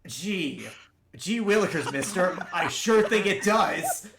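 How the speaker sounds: put-on gee-willikers kid voice, slow on the last line; wholesome 1950s kid. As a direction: play an eager 1950s kid. GM mock reply to raging player.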